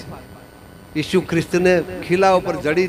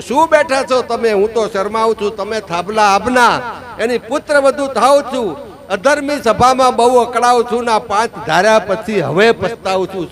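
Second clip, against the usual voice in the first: mildly raised, indignant voice of Draupadi; retold outcry, scolding those who sit by; crying out in reproach; 3 semitones higher than usual. Draupadi rebukes the Pandavas in the assembly, retold outcry. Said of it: "ભીષ્મની સામે રાડ નાખી".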